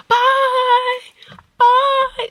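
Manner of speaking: high, loud "Bye, bye"; a cheery girl's goodbye; sing-song kid goodbye. Retold or imitated. The once-rude girl now cheerfully calls goodbye to the mom. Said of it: "she'd be like".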